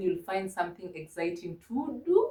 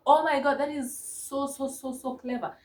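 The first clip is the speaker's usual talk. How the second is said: excited praise; 4 semitones higher than usual. Real, not acted. Praising child's sentence.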